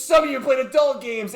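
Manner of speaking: high, loud mock accusation; retold rant. Presenter accusing the audience, high mock rant. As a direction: imitate him calling out the room. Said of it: "goes fucking off on him".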